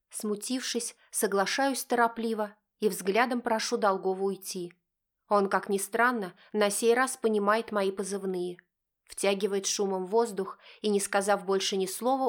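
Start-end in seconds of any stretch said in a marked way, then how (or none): none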